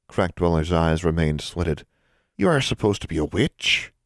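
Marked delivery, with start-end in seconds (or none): 2.4-3.9 disapproving elf. Acted.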